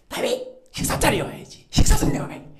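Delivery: Saul's luring call. Acted. Saul luring David to dinner.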